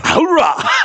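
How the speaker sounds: shouted military battle cry. Acted. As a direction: bark it like a drill sergeant.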